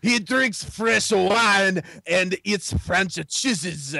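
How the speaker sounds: put-on half-sung jokey French accent, slow; French president bragging in a sing-song accent; mock French accent. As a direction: croon it in a cartoon French accent. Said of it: "Your French accent is better than Steve Martin".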